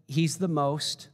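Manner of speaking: slow, searching delivery; slowly. Retold or imitated. Templeton groping for words, said slowly. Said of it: "he said slowly".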